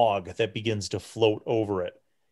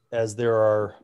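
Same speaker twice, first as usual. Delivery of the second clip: put-on frail old priest. Frail priest questions the party about the ritual, hushed. Priest assigns candle holders.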